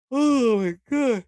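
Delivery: slow, loud groan of disbelief; loud drawn-out oh my god. Real, not acted. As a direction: stretch it out loudly, exasperated.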